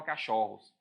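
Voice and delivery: "cachorros" mispronounced with the second syllable opened up; open vowel. Shown as a demonstration. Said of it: "Você não fala".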